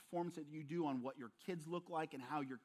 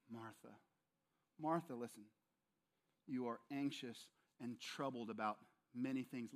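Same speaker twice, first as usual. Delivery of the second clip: soft, lower, tender address; gentle Jesus; 4 semitones lower, 4 dB quieter than usual. Acted. Jesus gently calming anxious Martha, soft and tender. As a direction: speak her name softly to calm her. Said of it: "It conveys gentleness".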